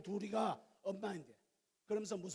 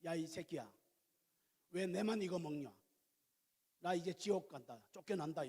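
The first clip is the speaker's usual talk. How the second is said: Gyeongsang dialect, grumbling and blunt; lightly acted Gyeongsang scolding; 3 semitones lower than usual. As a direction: complain bitterly in Gyeongsang speech. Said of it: "경상도 말로 해야 돼".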